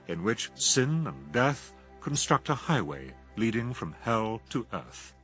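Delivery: ordinary talk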